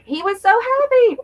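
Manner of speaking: remembering her late husband's happiness, real strained grief; voice breaking with regret. Real, not acted. Grieving over late husband.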